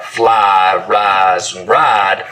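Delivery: fly, rise, ride with a long ah, no glide; smoothed I. Shown as a demonstration. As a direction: flatten the I in rise to rahz. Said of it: "smooth the diphthong in words like".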